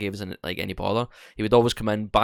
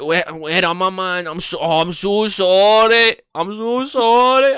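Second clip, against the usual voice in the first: high, slow, slurred apologies; drunk apologetic man; 9 semitones higher, 10 dB louder, slower than usual. Retold or imitated. A drugged customer apologising after falling, high and slow. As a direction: plead sorry like a wasted man.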